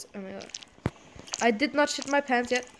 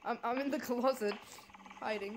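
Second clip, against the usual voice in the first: hushed hiding; 13 dB quieter than usual. Pretend. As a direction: keep it down as if hiding. Hiding from pursuer in horror game.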